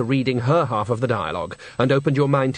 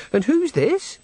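put-on much higher, slow and bright greeting of a girl; happy young woman; 13 semitones higher, slower than usual. Girl at the brothel door welcoming Granny, high and happy. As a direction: greet her like a delighted young hostess.

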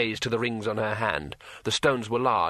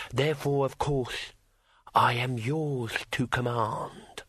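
slow, soft, patient dragon voice; telepathic dragon voice; 3 dB quieter, slower than usual. Acted. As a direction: explain it slowly from inside the mind. Dragon explains calmly.

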